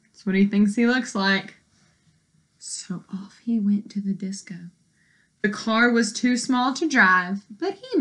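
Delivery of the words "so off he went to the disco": soft unvoiced whisper. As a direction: whisper it like a secret. Story line read softly.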